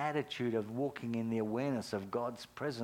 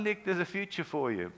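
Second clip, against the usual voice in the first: urgent encouragement; 5 semitones higher than usual. Retold or imitated. Urging Nick in story.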